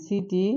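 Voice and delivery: "সিটি" begun with a clear s sound; soft "সিটি" with a hissed স. Shown as a demonstration. Teacher modelling city to students. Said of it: "সি এর উচ্চারণটা কিসের মতো".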